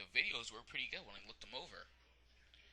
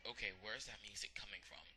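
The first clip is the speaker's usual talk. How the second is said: hushed unvoiced whisper; whispered Kaiba; 7 dB quieter than usual. Kaiba hears music start, whispering.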